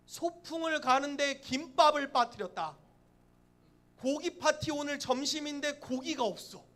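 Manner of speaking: loud, high, drawn-out dismay; hammed-up alarm; mock disaster. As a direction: proclaim it slowly like a catastrophe. Dramatizing a picnic food disaster.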